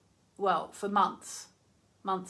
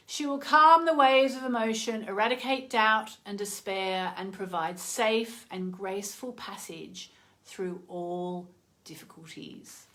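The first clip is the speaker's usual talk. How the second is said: inspirational card reading. Acted. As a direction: read it like a blessing. Reads oracle card message.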